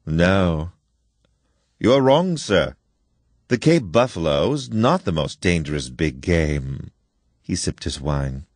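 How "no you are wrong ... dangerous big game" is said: slow, deliberate correction, with wrong sir lifted; slowly. Acted. General correcting his guest about dangerous game, slowly. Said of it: "Then he said slowly".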